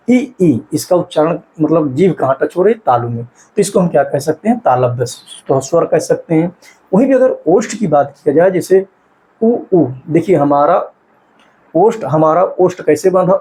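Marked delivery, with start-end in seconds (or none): 0.1-0.6 ई, ई said slowly, tongue toward the palate; vowel demo. Shown as a demonstration. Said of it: "स्वयं करके देखिए". 9.4-9.9 उ said with rounded lips; vowel demo. Shown as a demonstration. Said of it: "देखिए ओष्ठ सीधे मुंह बन जा रहा है".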